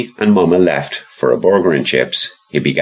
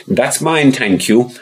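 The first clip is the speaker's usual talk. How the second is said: posh lady voice; 5 semitones higher than usual. Acted. Posh lady claims doll.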